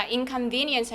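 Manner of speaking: "inconvenience" slowly, stressed on the "ve" syllable. Shown as a demonstration. Teacher shows students the word "inconvenience", stress on "ve". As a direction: punch "VE" in "inconvenience". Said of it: "V E의 강세 들어갑니다".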